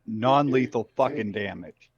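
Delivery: half-yell it back in character. Acted. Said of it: "I'm gonna yell back".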